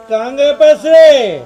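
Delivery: loud, angry repeated question; angry demand. Acted. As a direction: demand it loudly, like an angry husband. Husband demands the missing money. (गुस्से में चिल्लाकर सवाल)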